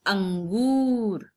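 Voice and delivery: अंगूर said very slowly with a clear nasal अं; clear nasal sound. Shown as a demonstration. Teacher slowly models अंगूर for pupils. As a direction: stretch अंगूर, letting the अं ring through the nose. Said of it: "अंगूर किस प्रकार पढ़ा जाता है?".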